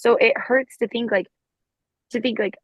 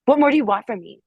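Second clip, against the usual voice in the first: accusatory; 3 semitones higher than usual. Shown as a demonstration. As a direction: throw the question back as an accusation. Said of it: "completely, uh, like, accusatory way of".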